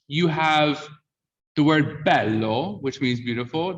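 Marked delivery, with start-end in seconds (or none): 2.0-2.8 "bello" with an open E. Shown as a demonstration. Teacher showing the word for beautiful, open E in "bello". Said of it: "that vowel's open".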